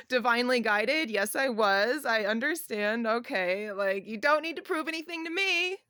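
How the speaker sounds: amused, playful giving-in; lightly hammed-up acknowledgment; mock concession. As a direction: concede to heaven through a laugh, rising at the end. Mock reply to a heavenly sign.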